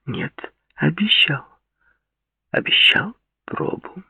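put-on sweet, insistent young woman; Claudia's voice. A narrator's reading.

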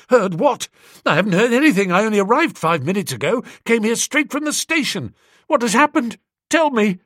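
high, loud frantic questions; panicked alarm. A narrator's reading. Bingo frantically begging Bertie to say what happened. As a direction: demand the news in a rising panic.

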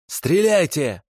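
high-pitched cry; defiant cry. A narrator's reading. Prisoner bares his chest to his captors, crying out defiantly. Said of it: "крикнул он".

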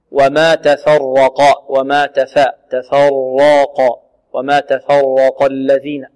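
slow, drawn "تفرق" keeping ف thin before full ر and ق; light ف, heavy ر. Shown as a demonstration. Teacher warns of letters affecting each other, light ف in "تفرق". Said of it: "أن يخلص هذه الحروف".

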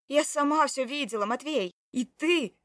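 loud, high, furious accusing; angry accusation. Acted. Wife accusing her husband of cheating, angry and loud. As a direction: throw it at him in hurt fury.

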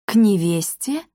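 understated indignant question. A narrator's reading. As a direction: query it, taken aback and affronted. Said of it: "возмутилась госпожа Жевина". (возмущённо)

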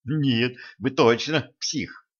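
panting after a scare; out of breath. Acted. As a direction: say it between heavy breaths. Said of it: "тяжело дыша повторила девушка".

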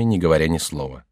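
ordinary delivery, nothing marked

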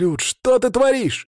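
high, slow reproachful cry; a father's shocked outcry; exasperated father. A narrator's reading. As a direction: call him out like a dismayed father. Father shouts in story.

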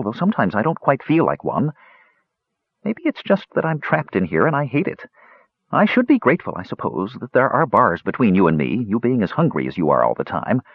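lightly voiced anxious squirrel; nervous squirrel voice.

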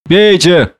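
urging. A narrator's reading. Drunken man offers Prendick brandy, urging. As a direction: press the drink on him.

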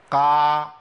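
long held قا with the mouth fully open; over-opened qaf. Shown as a demonstration. Teacher shows what to avoid, over-opened qaf. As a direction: chant قا wide and open on one note. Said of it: "ما عملتش انفتاح كامل كده".

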